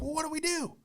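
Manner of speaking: high, soft mock-panicked aside; squeaky retold whisper; conspiratorial hush. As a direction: act out asking a friend in secret. Whispered consultation with friend.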